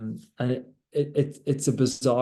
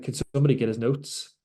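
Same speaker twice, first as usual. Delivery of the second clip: calm; faster than usual. Retold or imitated. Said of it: "Really calmly".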